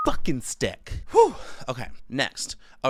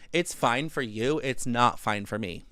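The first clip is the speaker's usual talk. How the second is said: "It's fine for you. It's not fine for me." spelled out slowly, word by word; slow it down to make the point land; slow deliberate repeat; slower than usual. Shown as a demonstration. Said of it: "slower repeat".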